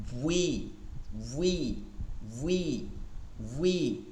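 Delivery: ভুই with rounded lips; rounded waw. Shown as a demonstration. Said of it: "ঠোঁট গোল করে". (ঠোঁট গোল করে ভুই)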